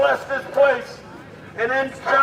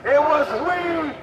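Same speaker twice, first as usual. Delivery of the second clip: rallying shout. Real, not acted. Rallying the crowd.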